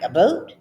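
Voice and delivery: 'boat' echoed as a rising question; puzzled echo. Retold or imitated. Wife questioning husband's Canadian word, puzzled echo. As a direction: repeat 'a boat' back, querying the OH vowel. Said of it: "And I'm like".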